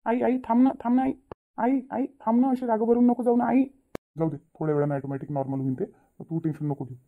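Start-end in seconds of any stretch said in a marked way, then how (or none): 0.0-1.1 high, loud call after a mother who is walking away; pleading call. Acted. Son calls after leaving mother. 1.6-3.6 loud, high begging to stop her leaving; pleading call. Acted. Son keeps calling after mother.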